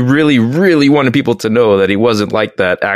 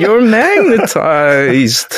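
slow, stretched-out movie line imitation; a rapper's quote; 3 semitones higher, much slower than usual. Quoting a rapper's line to friends, slow mock impression. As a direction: drag each word out as a lightly done rapper impression. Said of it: "to hear Mos Def go".

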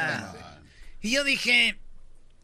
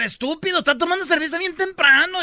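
higher, a touch louder scolding; mock yelling; 8 semitones higher, 4 dB louder than usual. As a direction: scold him like an angry mom. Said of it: "le empieza a gritar". (regaño de señora, agudo y algo fuerte)

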